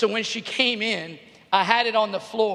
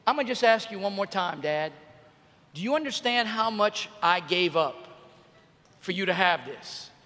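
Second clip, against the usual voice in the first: a hint of a stern parent, softer; lightly voiced daughter scolding like a parent; grown-up daughter; 4 semitones lower, 7 dB quieter than usual. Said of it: "went total adult grown up on me".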